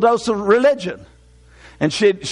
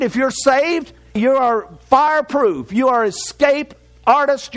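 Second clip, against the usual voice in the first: higher, emphatic sermon delivery; preaching; 4 semitones higher than usual. Real, not acted. Preacher assuring the saved they will escape, preaching.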